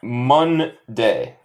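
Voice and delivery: Monday in two slow syllables, "mun-day"; slow model pronunciation. Shown as a demonstration. Teacher reviews vocabulary with students, slow model pronunciation. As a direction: draw out both halves of "Monday". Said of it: "se dice".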